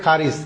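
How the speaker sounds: "খারিজ" opening on an aspirated kh; C like kho. Shown as a demonstration. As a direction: say "খারিজ" as kha-rij. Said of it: "সি এর উচ্চারণ খয়ের মতো হয়". ("খারিজ", "ক" নয়, "খ" দিয়ে)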